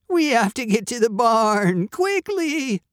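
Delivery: high, urgent sheep voice; bleating sheep. A narrator's reading. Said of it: "the sheep bleated".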